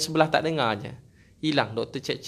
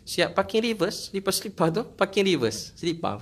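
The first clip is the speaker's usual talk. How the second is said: higher, amazed exclamation; 5 semitones higher than usual. Real, not acted. Ustaz tells the crowd about the slippers, amazed and higher. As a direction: marvel at the neatly reversed slippers.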